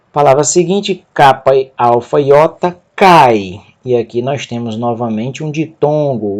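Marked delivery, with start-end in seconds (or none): 2.9-3.6 "cai" as one gliding syllable toward i; accented diphthong. Shown as a demonstration. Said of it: "O acento recai sobre a segunda".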